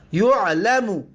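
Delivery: یعلمو said as yu'-la-mu; u first, then a in یعلمو; passive vowels. Shown as a demonstration. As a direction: sound out یعلمو as "yu'lamu".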